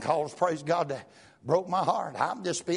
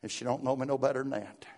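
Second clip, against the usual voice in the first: quiet; 6 semitones lower, 5 dB quieter than usual. Real, not acted. Quiet private recollection.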